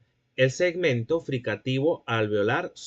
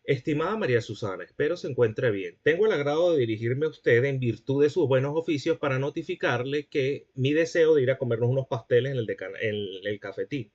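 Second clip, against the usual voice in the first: mock formal letter. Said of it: "a decirle a María Susana".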